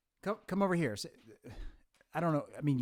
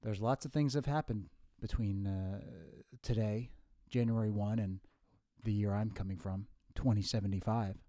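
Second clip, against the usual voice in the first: a hint of a measured old professor, softer; lightly voiced professorial future self; 3 semitones lower, 6 dB quieter than usual. Future self explains to his younger self, lightly professorial. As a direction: speak low and deliberate, like a lecturer.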